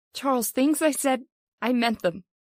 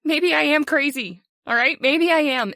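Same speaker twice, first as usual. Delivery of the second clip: defiant outburst; 3 semitones higher than usual. Acted. Wife snaps back at husband.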